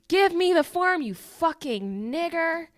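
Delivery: high, punched angry demand; mock irate yell. Podcaster acts out customer demanding a form from clerk, mock irate. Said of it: "starts yelling at him".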